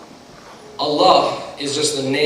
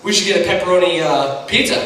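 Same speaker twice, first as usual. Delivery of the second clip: teasing buddy, building louder and higher; goofy mock suggestion, growing more insistent; Chris; 5 semitones higher, 4 dB louder than usual. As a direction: needle a friend with a joke you find hilarious. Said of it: "my buddy Chris is like".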